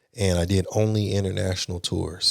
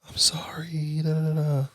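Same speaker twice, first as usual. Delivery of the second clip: breathy, whispered seductive apology; whispered plea; 7 semitones higher than usual. Retold or imitated. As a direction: whisper it as if coaxing him.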